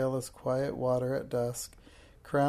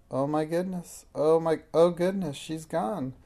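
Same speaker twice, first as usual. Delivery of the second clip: higher, flustered exclamation; dismayed surprise; 4 semitones higher, 4 dB louder than usual. Acted. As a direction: gasp out the shock. Lady has vanished.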